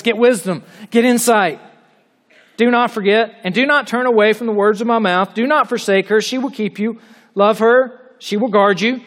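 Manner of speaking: an urgent plea to get wisdom. Retold or imitated. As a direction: urge them on, quick and earnest. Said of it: "with urgency and quickness".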